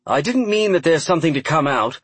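careful, proper speaking voice. A narrator's reading. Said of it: "in his well-practiced and most proper voice".

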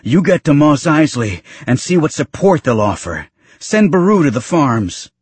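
high-pitched urgent orders, acted; frantic, rising voice. A narrator's reading. Injured father orders his son to find help, frantic. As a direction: send them off frantically, pitch well up. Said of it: "his voice rising frantically".

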